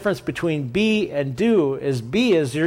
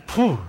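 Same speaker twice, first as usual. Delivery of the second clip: relieved exhale; 5 semitones higher than usual. Retold or imitated. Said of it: "the branch is sitting there going".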